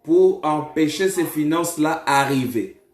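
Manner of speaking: emphatic prophecy, pushed slightly above conversational pitch; prophetic preaching. Real, not acted. Prophet tells a caller who blocks the finances, emphatic preaching. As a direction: declare the vision with force.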